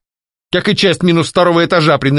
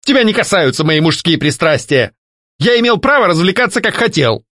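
higher, indignant ranting; angry defence; 8 semitones higher than usual. A narrator's reading. Ghost angrily defending his pleasures, higher. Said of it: "гневно прокричал Альфред".

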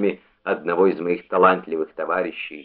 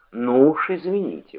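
higher-pitched protest, mildly affronted; indignant exclamation; 7 semitones higher than usual. A narrator's reading. Chairman answering the prosecutor's criticism of his phrase, exclaiming. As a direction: exclaim it like a mildly offended old judge. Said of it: "воскликнул он".

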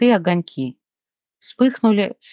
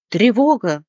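louder repeated parrot alarm; alarmed cry; 4 semitones higher, 3 dB louder than usual. Acted. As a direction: call the alarm again. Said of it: "закричал попугай". (попугай повторяет тревогу, громко)

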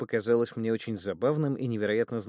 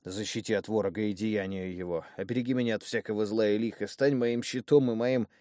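muttered prayer. Acted. Frightened thug mumbles a protective prayer. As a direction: rattle off the prayer under your breath. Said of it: "бормоча молитву".

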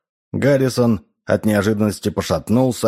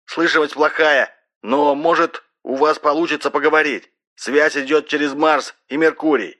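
raised, high-pitched voice through a telephone; shouted over phone; 8 semitones higher than usual. A narrator's reading. Sparks warns of a bad line to Mars, shouting by phone. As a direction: project over a poor connection. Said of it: "прокричал в трубку Спакс".

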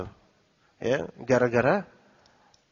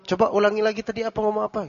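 higher, quick request to repeat; meniru minta diulang; 6 semitones higher, faster than usual. Shown as a demonstration. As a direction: ask for a repeat, pitched up and hurried. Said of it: "kalau misalnya mau diminta ngulang". (meniru orang minta diulang, nada tinggi dan cepat)

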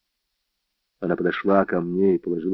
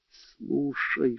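hushed, higher-pitched soft voice; whispered; 5 semitones higher, 9 dB quieter than usual. A narrator's reading. Netta warns Steve of someone in the house, whispering. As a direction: whisper it urgently, keeping the voice down. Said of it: "шепнула она".

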